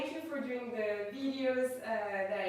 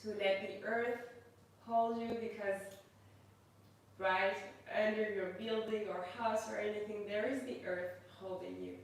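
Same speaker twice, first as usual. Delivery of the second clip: guided meditation. Acted. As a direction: ease the class gently into stillness. Leads a yoga meditation.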